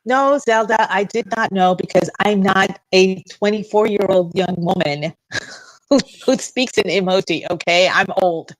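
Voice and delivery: loud, playful protest; mock indignation. Woman protesting to Zelda about knowing emoji, mock indignant.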